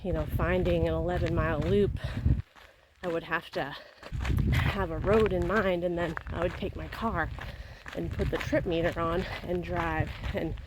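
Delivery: talking mid-jog; speaking while out running. Real, not acted. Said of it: "Cruising along at an eleven thirty pace".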